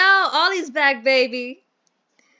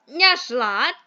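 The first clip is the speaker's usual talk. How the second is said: posh British gentleman; 3 dB louder than usual. Acted. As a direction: play the fussy English employer in a mild posh accent. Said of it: "I hate this accent".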